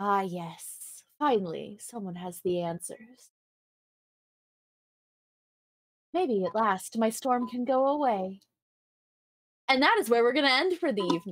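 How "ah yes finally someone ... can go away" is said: mysterious, disembodied voice, as from a seashell. Voicing a voice the players hear from a shell: voice from a shell. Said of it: "You hear a voice that says".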